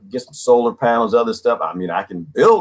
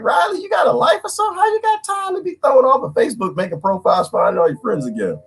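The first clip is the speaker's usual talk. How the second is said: high, fast teasing yell at Riley; mock exasperated shout; 14 semitones higher than usual. Teasing his friend Riley for getting banned, high mock shout. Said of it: "it's like".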